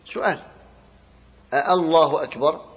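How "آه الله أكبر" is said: آه، الله أكبر with the first hamza stretched long; drawn-out hamza on Allah. Shown as a demonstration. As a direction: lengthen آه before الله أكبر. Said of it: "تقت الهمزتين فمد إحداهما". (مد الهمزة الأولى: آه، الله أكبر)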